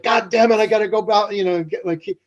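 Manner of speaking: annoyed at yourself mid-mantra; frustrated cursing. Retold or imitated. Meditator remembering locked keys, mock exasperation. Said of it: "and you're like".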